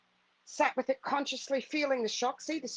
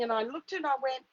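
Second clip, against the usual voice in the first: ordinary delivery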